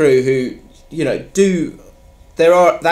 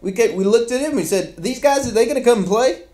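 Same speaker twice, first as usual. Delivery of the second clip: high, light Beckham voice much higher throughout; comic David Beckham phone call voice; David Beckham impression; 9 semitones higher than usual. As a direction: do a breathy-free high London footballer voice. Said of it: "It's a fantastic accent".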